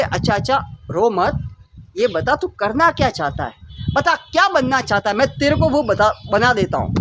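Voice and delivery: put-on an old holy man hushing a crying bird; lightly voiced old sage.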